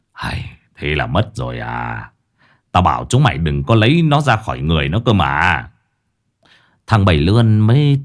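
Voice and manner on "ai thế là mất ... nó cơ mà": low, sighing scolding; sigh, then tell off the underlings; old exorcist in weary reproach; exasperated old master. Acted.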